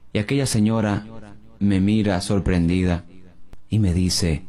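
ordinary talk, nothing marked

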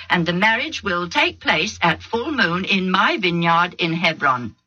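mild outrage of an offended father; a touch of a furious father defending his daughter. Acted. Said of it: "He was furious".

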